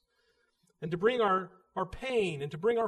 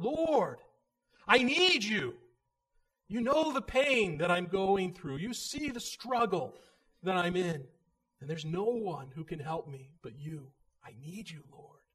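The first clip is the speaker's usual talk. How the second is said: urgent plea; 5 dB louder than usual. Pretend. Paul crying out to God, urgent and loud. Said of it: "an urgent plea for help".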